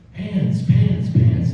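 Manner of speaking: chanting pants like a rowdy crowd; mock crowd yelling. Retelling the keynote crowd shouting the answer, loud chant. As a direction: imitate the audience shouting pants. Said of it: "They're yelling".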